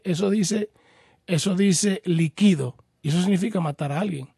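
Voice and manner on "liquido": líquido said as li-KI-do; slow li-KI-do, stressing the KI of líquido; stress on middle syllable. Shown as a demonstration. Host explains the verb form to a caller, líquido stressed li-KI-do. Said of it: "el acento está en la I después de la L".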